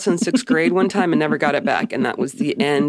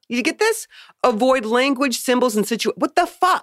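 high-pitched disbelief, rising to a squeal; incredulous; 7 semitones higher than usual. Real, not acted. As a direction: read it back in outraged disbelief. Outraged rereading of quote.

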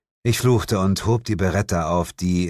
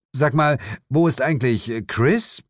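innocently; 7 semitones higher than usual. Acted. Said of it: "erkundigte ich mich unschuldig".

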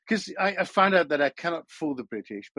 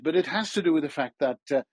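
ordinary delivery

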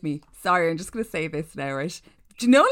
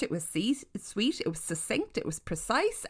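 whisper; 2 semitones higher, 7 dB quieter than usual. Real, not acted. Praising short review.

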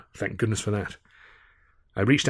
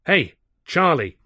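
slow, high call to wake a sleeper; 8 semitones higher, 5 dB louder, slower than usual. Acted. Narrator calling Charlie awake from his stupor, loud and drawn out. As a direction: draw out the call to rouse him.

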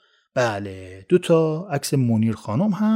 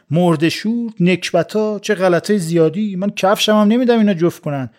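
loud, higher scornful outburst; angry yell; 4 semitones higher, 3 dB louder than usual. Acted. Munir yells at her three would-be suitors, scornful shout. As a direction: spit the insults out in disgust. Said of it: "منیر داد زد".

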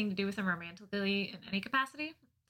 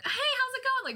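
bright, much higher mock-cheerful hello; chipper greeting; 13 semitones higher than usual. Deli woman's usual greeting, done high and cheery. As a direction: imitate a peppy deli clerk greeting you. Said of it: "she's usually always really chipper".

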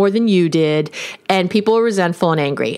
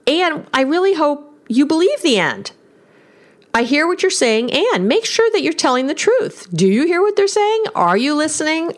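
higher, lifting questions that invite; lilting open tone; 3 semitones higher than usual. Shown as a demonstration. Therapist showing couples how "and" lilts up and draws in. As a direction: lift the voice up and in toward the listener. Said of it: "your voice kind of lilts up".

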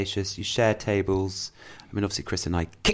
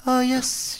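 Austrian shop lady. Retold or imitated. Narrator quoting the Austrian shop owner in her high voice. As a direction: imitate the crazy Austrian lady, pitched up and hushed. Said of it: "she talks like this".

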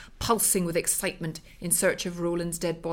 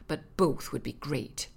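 gleeful wicked; 5 semitones lower, 6 dB quieter, slower than usual. Acted. Wife's gleeful wicked thought.

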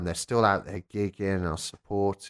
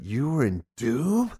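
amazed question; 4 semitones higher, slower than usual. Retold or imitated. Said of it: "he just suddenly stopped and just went".

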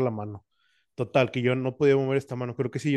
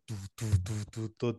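rapid soft "tu-tu-tu" noises; imitated stressed thumping; 2 semitones lower, 6 dB quieter than usual. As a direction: mimic a pounding, stressed body. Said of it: "todo así estresado".

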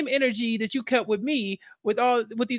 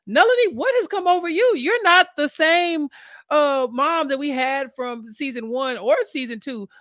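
shocked disbelief; 6 semitones higher, 3 dB louder than usual. Retold or imitated. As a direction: call her out in disbelief. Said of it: "And I'm like".

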